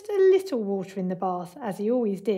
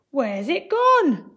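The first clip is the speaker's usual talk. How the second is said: puzzled call; 4 semitones higher, 7 dB louder, much slower than usual. A narrator's reading. Archimedes calls out puzzled.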